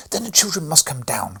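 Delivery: cried. A narrator's reading. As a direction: cry it out like a demanding child. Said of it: "cried Fred".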